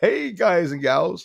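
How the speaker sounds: put-on vintage children's show puppet voice. Greeting viewers on stream, playfully in a Howdy Doody voice. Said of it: "Sound like Howdy Doody".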